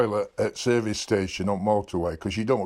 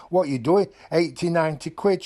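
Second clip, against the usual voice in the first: higher-pitched mock outrage; indignant retort; 6 semitones higher than usual. Husband challenging his wife over pricey perfume in the trolley, mock indignant. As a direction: imitate an incredulous husband's protest.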